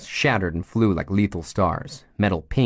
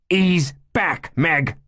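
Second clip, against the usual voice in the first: lifted voice; 10 semitones higher, 3 dB louder, much slower than usual. Acted. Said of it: "Nate lifted his voice now".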